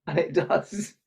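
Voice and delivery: put-on high-pitched, eager boy showing off his stick; boy playing dog trainer, calling out commands; excited little boy. Boy explains his stick is good, excitedly.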